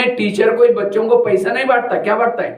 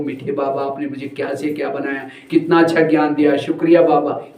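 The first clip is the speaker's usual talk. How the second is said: talking tenderly to Baba; 7 semitones lower than usual. Shown as a demonstration. Preacher shows how to talk to Baba, low and tender. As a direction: thank him low and intimately. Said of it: "बाबा से बातें करो".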